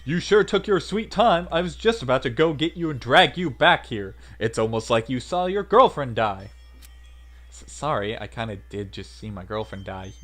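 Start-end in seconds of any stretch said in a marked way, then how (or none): 0.0-6.5 loud, teasing Southern scolding. Acted. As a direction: chide him in a loud Southern accent. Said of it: "There's my southern voice".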